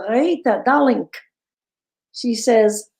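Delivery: fond Jewish aunt voice, lightly done; attempted Jewish accent. Jewish accent of the aunt calling Rita, lightly tried. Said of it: "I can't do a Jewish accent to save my life".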